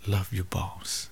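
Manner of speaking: slow, soft whispered plea. Real, not acted. Preacher whispering advice about the boss, slow and hushed. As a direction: whisper it slowly like a secret. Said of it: "whispered urging".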